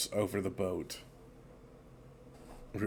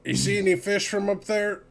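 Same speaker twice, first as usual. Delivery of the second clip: higher, louder call across the deck; 11 semitones higher, 6 dB louder than usual. Acted. Sailor asking the lookout about fish, calling out. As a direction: call up to someone further off. Character calls to another on deck.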